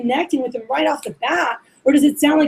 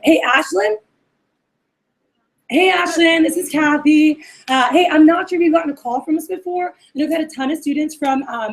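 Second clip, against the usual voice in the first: friendly. Shown as a demonstration. Kathy calling her friend Lorena's buddy, friendly and familiar. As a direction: talk like a friend they haven't met yet. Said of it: "it's a very friendly".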